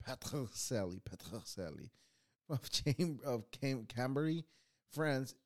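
retry Petrocelli in a contained, corrected accent. Shown as a demonstration. Host retrying the inventor's name Petrocelli, corrected accent. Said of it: "no, that's the wrong accent".

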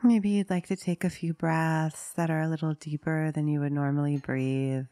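unhurried meditation guide, long pauses between phrases; guided meditation. Acted. Meditation teacher inviting listeners to settle into a posture, guiding calmly. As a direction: gently lead listeners into stillness, leaving long silences.

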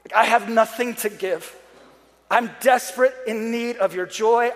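earnest, desperate plea to Jesus; pleading prayer. Acted. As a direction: pray with emphatic need. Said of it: "I just begin to pray".

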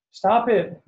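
a high, loud, anguished cry; pained shout. A narrator's reading. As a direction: scream it out as if it hurts you too. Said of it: "Dawn shouts".

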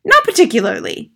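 loud, high-pitched dismissal; unimpressed mother. Acted. Mother to excited teacher, unimpressed. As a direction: dismiss it out of hand.

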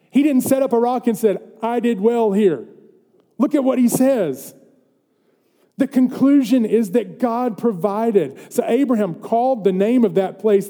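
animated pulpit voice; preaching. Real, not acted. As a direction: preach it with rising energy. Preaches with raised voice.

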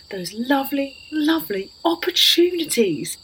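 gushing. Acted. Dreamy gushing over opportunities.

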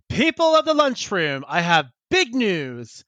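high-pitched, drawn-out mock Southern announcement; Southern orator. Furry's friend announces big news to the lunchroom, hammed-up Southern drawl. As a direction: proclaim it like a hammed-up Southern speechmaker. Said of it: "like, Confederate Southern".

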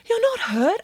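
put-on high, worried little girl; a lightly voiced girl asking; young girl voice. A narrator's reading. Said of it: "asked Samantha".

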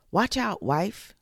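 high, loud alarmed cry; high urgent shout of warning; cried warning. Acted. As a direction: yell a sudden warning to his wife. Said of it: "he cried".

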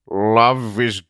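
a touch of a breaking voice; voice cracking. Acted. Zealot grieving Love, voice cracking. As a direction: let the voice crack with grief. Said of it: "Zealot's voice cracked".

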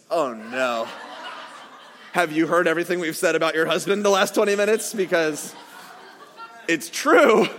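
laughing through it; sheepish laugh at himself; laughing embarrassment. Retold or imitated. Telling the mother he mocked her husband, through laughter.

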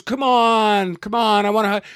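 a hammed-up gushing woman; mock gushing fan. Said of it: "And she goes".

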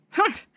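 scornful humph snort. Acted. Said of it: "Jake snorted".

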